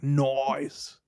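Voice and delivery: another broad Australian "noice" for Nice; Nice stretched into Australian "noice"; Australian accent. Pretend. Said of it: "let my Australian accent cook".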